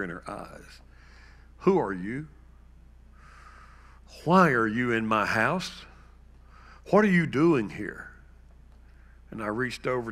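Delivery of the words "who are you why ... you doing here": put-on scared, confused old mother demanding answers; mother afraid of a stranger in her house; frightened mother. Mother who no longer knows her son, frightened.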